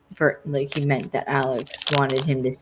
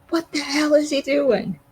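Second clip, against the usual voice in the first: much higher, incredulous squawk; a high, indignant what-the-hell; mock outrage, pitched way up; surprised, mad; 12 semitones higher, 3 dB louder than usual.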